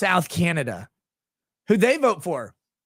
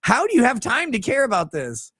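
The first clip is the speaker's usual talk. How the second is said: retelling a baffled reaction to a friend, raised pitch; incredulous disbelief; 6 semitones higher than usual. Retold or imitated. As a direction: act baffled that a Canadian cares. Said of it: "And I'm like".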